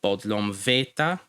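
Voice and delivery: Bodlom veta with stress on ve; penultimate stress. Shown as a demonstration. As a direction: stress the second last syllable of veta. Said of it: "emphasis ... on the second last syllable".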